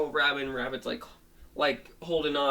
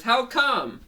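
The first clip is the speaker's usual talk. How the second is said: puzzled question; 10 semitones higher, 6 dB louder than usual. Acted. Dog questions Rabbit's claim.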